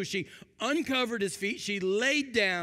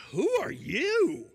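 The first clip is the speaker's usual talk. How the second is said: slow, puzzled "Who are you?" with a higher start; confused; 5 semitones higher, slower than usual. Shown as a demonstration. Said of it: "Maybe he was confused".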